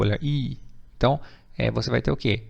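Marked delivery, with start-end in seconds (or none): 0.2-0.6 I held as a long EE. Shown as a demonstration. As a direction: stretch the vowel I into a long "ee". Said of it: "Um I longo". (I longo, esticado como "iii")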